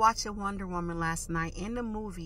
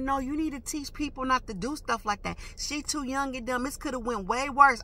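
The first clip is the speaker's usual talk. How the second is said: higher-pitched scolding; mama mode; 5 semitones higher than usual. Retold or imitated. Driver scolding the lady about the young girl, retold mama-mode telling-off. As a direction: tell them off like a fired-up mother. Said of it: "I'm going off, like, I went to mama mode".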